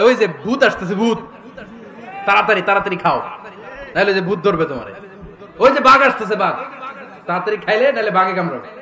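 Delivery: loud, urgent mock warning to a child; urgent parental warning. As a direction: scare a child into eating, loudly. Parents scaring child into eating.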